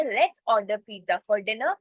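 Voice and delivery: very slow, clear English demo; slow model sentence. Shown as a demonstration. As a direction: spell it out slowly for learners. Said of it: "तो आप कैसे बोलोगे". (बहुत धीमे, साफ़ अंग्रेज़ी में)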